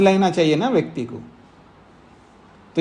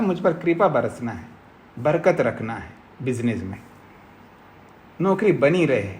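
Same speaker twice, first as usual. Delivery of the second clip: mock prayer; 3 semitones lower, 3 dB quieter than usual. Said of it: "बस यही रखता है".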